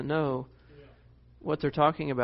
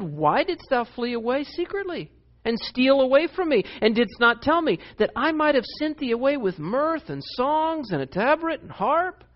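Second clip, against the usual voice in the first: Laban; 8 semitones higher than usual. Retold or imitated. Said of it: "He said".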